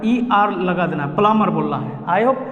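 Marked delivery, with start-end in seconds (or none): 1.2-1.5 "प्लम्बर" without b, as "pla-mar"; silent b. Shown as a demonstration. Teacher showing result of removing b, "pla-mar" with silent b. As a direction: drop the b from "प्लम्बर", go straight from m to the ending. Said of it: "बी को हटा देना है".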